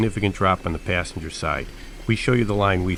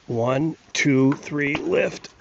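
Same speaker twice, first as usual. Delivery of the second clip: lifting together; 8 semitones higher, much slower than usual. Real, not acted. Lifting something heavy together.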